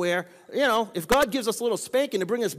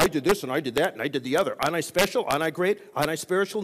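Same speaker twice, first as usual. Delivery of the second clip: mock self-important bragging, pitched down; mock boastful; 3 semitones lower, faster than usual. Preacher mimicking people who want praise for good deeds, mock boastful. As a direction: put on a show-off's boasting, dropping lower. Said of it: "we wanna be pumped up by everybody".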